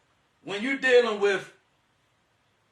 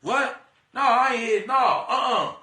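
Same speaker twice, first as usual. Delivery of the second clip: dismissive refusal; 4 dB louder than usual. Retold or imitated. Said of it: "You supposed to be the person that be like".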